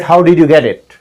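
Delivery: "how did you get it" with did and you fully sounded; textbook pronunciation. Shown as a demonstration. Teacher quoting the non-native way, fully worded. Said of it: "they don't speak like".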